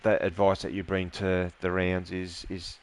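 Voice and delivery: holding back tears; emotional. Real, not acted. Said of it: "sorry for getting emotional there towards the end".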